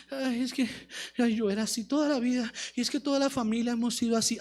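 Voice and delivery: low, soft, resigned whine; mock lamenting. Believer blaming the whole family, mock resigned lament. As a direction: sigh the excuse out softly. Mimics excuses about the past.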